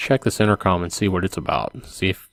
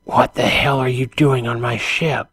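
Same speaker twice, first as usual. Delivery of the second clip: put-on higher, lightly French-accented challenge; 4 semitones higher, slower than usual. Man questions intruder on his ship, light French accent. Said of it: "with a light French accent".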